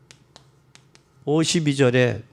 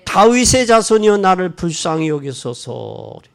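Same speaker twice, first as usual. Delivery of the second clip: desperate cry; 4 semitones higher, 5 dB louder than usual. Retold or imitated. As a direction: cry out louder despite the crowd. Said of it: "조용히 하라는데". (군중을 뚫고 더 크게 외치는 소경)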